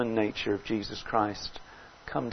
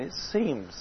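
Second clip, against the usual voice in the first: "seems" lifted in pitch and drawn out; stress on seems; 3 semitones higher, 3 dB quieter than usual. Real, not acted. Preacher qualifying God's apparent silence for the congregation, stressing "seems". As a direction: lean on "seems" with a raised, lengthened vowel. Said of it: "I stress the word seems".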